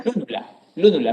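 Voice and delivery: "Lúnula" stressed on LÚ, falling after; stress on first syllable. Shown as a demonstration. Teacher answers student asking the term, "lúnula" stressed on LÚ. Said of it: "son esdrújulas".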